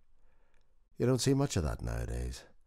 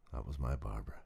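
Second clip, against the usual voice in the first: whispered fondness; 3 semitones lower, 7 dB quieter than usual. A narrator's reading. Fond memory of late wife.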